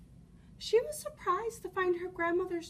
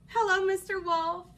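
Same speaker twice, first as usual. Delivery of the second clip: put-on cheerful little girl; 3 semitones higher, 7 dB louder than usual. Red greets wolf.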